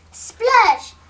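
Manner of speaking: high, loud exclamation; sudden splash. A narrator's reading. Wolf lands in the soup pot, loud splash. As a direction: burst out with it as a sound effect.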